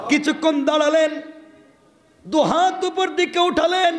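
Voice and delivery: high, chanted sermon cry; high-pitched impassioned waz delivery, drawn out; full-force preaching. Acted. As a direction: lift the story into an impassioned chant.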